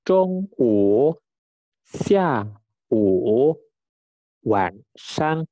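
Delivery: "zhong wu, xia wu, wan shang" with each tone clearly drawn; careful repetition for learners. Shown as a demonstration. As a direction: model "zhong wu, xia wu, wan shang" as separate, emphatic words. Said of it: "saya ulangin".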